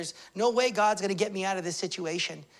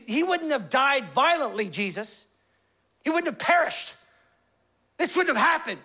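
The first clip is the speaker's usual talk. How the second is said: with emotion; 4 semitones higher than usual. Retold or imitated. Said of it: "she says it with emotion".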